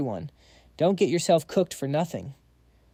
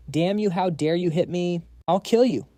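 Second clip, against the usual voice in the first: screaming; 2 semitones higher than usual. Acted. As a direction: start angry and blow up on the kill. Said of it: "Liu Nulong just screams".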